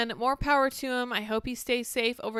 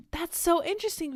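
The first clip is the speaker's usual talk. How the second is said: mock interest; 8 semitones higher, 3 dB louder than usual. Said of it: "And I was like".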